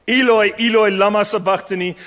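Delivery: Eloi, Eloi cried out high and loud; anguished cry. Acted. Jesus on the cross crying to his Father, anguished and loud. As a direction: cry it from the bottom of the soul. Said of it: "is a cry that has come from the bottom of his soul".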